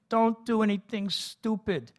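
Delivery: pleading. A narrator's reading. Mother pleading with father not to fight, high and anxious. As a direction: beg him not to go. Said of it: "she pleaded".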